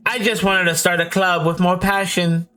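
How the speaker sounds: the club president opening up, voice lifted; Monika's voice. Acted. Monika alone, thinking aloud.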